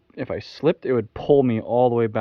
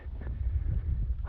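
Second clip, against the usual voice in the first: breathless gasp; 7 dB quieter than usual. Real, not acted. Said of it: "I'm so out of breath".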